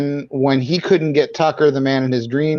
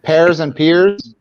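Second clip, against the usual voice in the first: slow contrast; 3 semitones higher, 4 dB louder, much slower than usual. Shown as a demonstration. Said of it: "I don't know your New Zealand accent".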